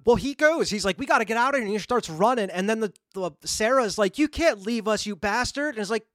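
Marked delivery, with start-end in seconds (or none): 1.0-1.6 higher-pitched urgent retelling; mock urgency. Movie fan retells the goofy guy fleeing, mock urgency. Retells character urging escape. 4.2-5.7 higher-pitched imitated accusation; mock outrage. Movie fan voices Sarah as the guy runs, mock outrage.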